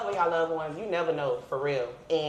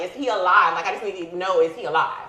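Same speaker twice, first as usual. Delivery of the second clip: mild mock yell; 6 dB louder than usual. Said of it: "I'm screaming at this point".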